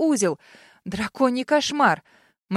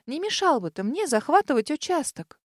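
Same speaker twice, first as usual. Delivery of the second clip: polite; 5 semitones higher than usual. Acted. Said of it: "вежливо попросила я".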